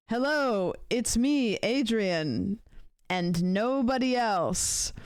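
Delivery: a lightly voiced, overly innocent hello, slowing at the end; mock Adrian greeting. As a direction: tease him with a cheesy, too-innocent intro. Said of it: "Adrian walking up to Fortnite Fridays".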